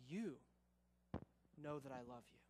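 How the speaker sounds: soft, low and halting; hushed, humble confession; humbled Peter. Acted. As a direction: answer quietly, with a long pause after "you". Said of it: "He goes back not upon his own knowledge".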